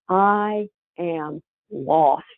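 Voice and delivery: lost and quivering. Retold or imitated. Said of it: "She had the most monotone voice".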